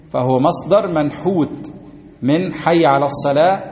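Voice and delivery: usual speaking voice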